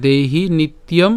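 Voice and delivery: "দেহি নিত্যম" slowly as one phrase; slow careful model of "দেহি নিত্যম"; joined pronunciation. Shown as a demonstration. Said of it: "এটা একসাথে".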